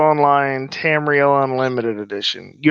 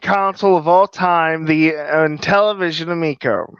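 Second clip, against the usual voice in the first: lightly voiced pitchman, a bit higher; a hint of a carnival huckster selling hard; snake oil seller; 4 semitones higher than usual. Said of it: "let me try to do my impression of a snake oil salesman".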